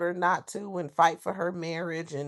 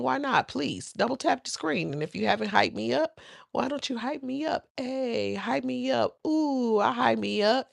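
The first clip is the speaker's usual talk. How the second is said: auntie voice; 5 semitones higher than usual. Acted. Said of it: "did I sound like somebody auntie doing it".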